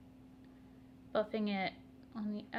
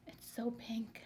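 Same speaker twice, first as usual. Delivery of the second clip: whispered aside; 7 dB quieter, slower than usual. Real, not acted. Aside about blush.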